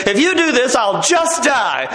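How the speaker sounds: hammed-up guilt trip from a wife, slowing to a crawl; melodramatic wife. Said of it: "And she comes and says".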